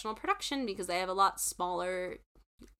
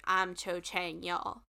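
put-on lightly done Southern accent, softer; a hint of a Southern drawl; understated Southern accent; 4 dB quieter, slower than usual. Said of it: "with a Southern accent".

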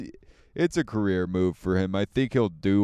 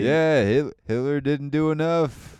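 Mark Norman impression; 3 semitones higher, 3 dB louder than usual. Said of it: "That was terrible".

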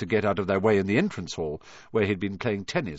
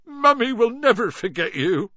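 high, tearful sob of a promise; weepy farewell, much higher; sobbing; 13 semitones higher, 5 dB louder than usual. A narrator's reading. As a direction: cry it out like a heartbroken parent. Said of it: "Hagrid sobbed".

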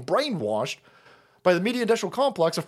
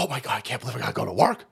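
quick, low mocking grumble; mock complaint; 10 semitones lower, 3 dB quieter, much faster than usual. Host quoting people who resent working, mock grumbling. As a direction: imitate a complainer, half-hearted. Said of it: "These motherfuckers sit there and go".

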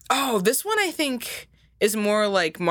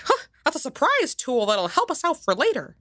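Mickey Mouse voice; 4 semitones higher than usual. Acted. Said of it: "and he's like".

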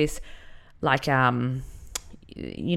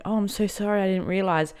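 horrified apology; 5 semitones higher than usual. Retold or imitated. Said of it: "She was horrified".

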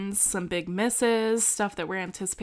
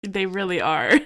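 laughing; 5 dB louder than usual. Real, not acted. Agrees while laughing.

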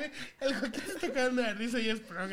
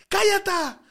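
mock yell of a boy who swaps his vowels, higher and louder; niño que confunde vocales; 7 semitones higher, 6 dB louder than usual. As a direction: imitate a boy shouting it with E turned to A. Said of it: "Le decíamos algo y decía". (imitando a un niño que no puede decir la E)

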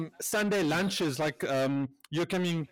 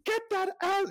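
high, strained mock yell; hammed-up irate calling out; angry summons. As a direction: imitate an impatient kitchen shout. Imitating man calling out angrily.

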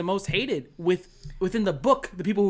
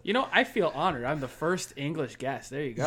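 mock British accent; 3 semitones lower than usual. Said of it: "If I'm doing this accent".

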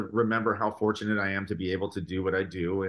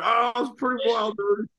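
keeping it together; 12 semitones higher, 4 dB louder than usual. Retold or imitated. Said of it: "trying to keep it together".

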